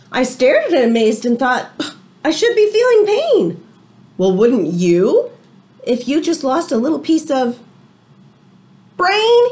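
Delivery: lively read-aloud to the class; story reading. A narrator's reading. Teacher reading a storybook to her class, lively read-aloud. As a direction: tell it like a picture book to children.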